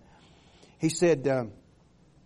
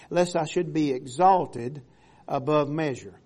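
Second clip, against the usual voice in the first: scripture reading; 4 dB louder than usual. Acted. Reads scripture aloud to congregation.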